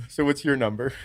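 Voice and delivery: half-shouted through laughter; cracking up while asking; laughing. Real, not acted. Laughing, pushing friend for answer.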